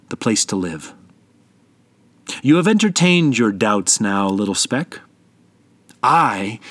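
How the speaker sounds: slow, steady voice of the mountain. Acted. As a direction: speak as an unchanging, tender mountain. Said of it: "The voice of the mountain spoke to the speck again".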